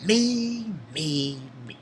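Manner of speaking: a light imitation of a cold, robotic agent; a lightly done, monotone Matrix villain; Agent Smith impression. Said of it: "Sound like, uh, Smith from Matrix".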